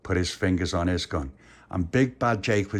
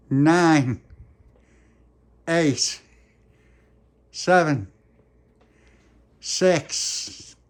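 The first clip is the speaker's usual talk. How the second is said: louder, higher slow countdown; dramatic countdown; 7 semitones higher, 6 dB louder, much slower than usual. Acted. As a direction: count down building suspense. Countdown to duel.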